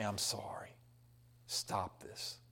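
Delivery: very soft, low near-whisper; hushed apology. Acted. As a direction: drop to a hushed, humble plea. Acts out someone making peace.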